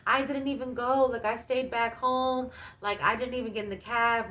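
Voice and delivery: imitating a tearful protest; retold freaked-out protest. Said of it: "freaking out, bawling my eyes out, crying".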